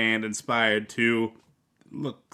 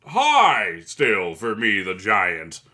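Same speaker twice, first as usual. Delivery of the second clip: mock voice; 6 dB louder, much slower than usual. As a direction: drawl it out in a silly put-on voice. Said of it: "Is like".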